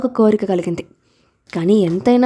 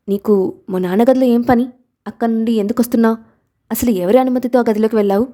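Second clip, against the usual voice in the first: put-on a touch of childish anger, quick in the middle; mild angry demand from a little boy; angry questioning. Little son confronting the stranger at the door, mildly angry. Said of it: "కోపంగా ప్రశ్నించాడు".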